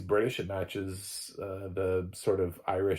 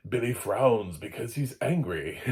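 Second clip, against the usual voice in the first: hammed-up narration that reads emotion into the scene; mock editorializing describer; over-interpretive narrator; 3 semitones higher, 4 dB louder than usual. Shown as a demonstration. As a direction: narrate it with too much interpretation, pitch swinging on "angry". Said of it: "don't like interpretive audio description".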